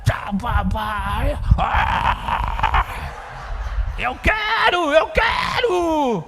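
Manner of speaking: very high shrieking screams; child on the floor screaming for the toy; full tantrum. Retold or imitated. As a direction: throw yourself into a toddler meltdown.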